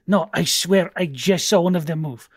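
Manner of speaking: insistent tabaxi. Acted. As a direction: insist as a catfolk sailor. Game master voices insistent tabaxi.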